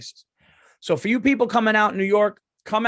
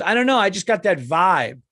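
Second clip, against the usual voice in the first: Australian woman; 6 dB louder than usual. Retold or imitated. Imitating the fan shrugging off her Trump question, mock airy. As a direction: toss it off like a clueless fan. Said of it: "And she goes".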